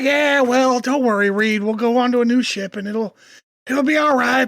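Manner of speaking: lightly voiced easygoing reassurance; a hint of a character reassuring a friend; Trip. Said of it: "Trip's like".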